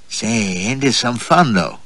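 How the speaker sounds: slow, teasing, flirtatious lilt on some fun; woman teasing her companion, slow and coy; coy American woman. Acted.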